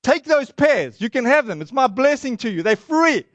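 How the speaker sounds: retold, hammed-up generosity; insistent offer. Shop owner giving pears to the American visitor, insistent.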